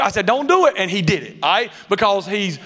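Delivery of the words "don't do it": laughing warning. Retold or imitated.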